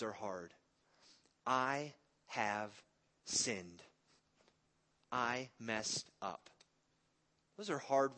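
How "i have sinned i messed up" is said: hushed confession. Acted. Acting out a hard confession.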